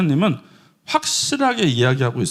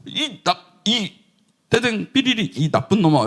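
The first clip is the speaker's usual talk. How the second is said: mock scolding; 3 semitones higher than usual. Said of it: "확 떨쳐버렸어야 돼요".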